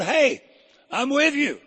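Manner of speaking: high ringing cry of reassurance; preaching Jesus' words. Acted. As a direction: lift it up to the rafters. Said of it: "And he said".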